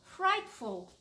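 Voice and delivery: the animals all horrified, drawn out; horrified chorus. Acted. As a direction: stretch it out in dramatic horror. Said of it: "everyone said".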